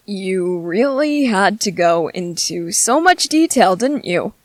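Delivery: dry, slow sarcasm; understated sarcastic dig. Acted. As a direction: stretch it out with mock admiration. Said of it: "I was being sarcastic".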